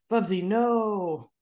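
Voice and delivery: slow, firm no to a pet; scolding the cat. Retold or imitated. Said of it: "when I go".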